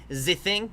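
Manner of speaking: "the" said as "zuh" in "the thing". Shown as a demonstration. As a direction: put a z at the start of "the". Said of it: "don't actually say Z".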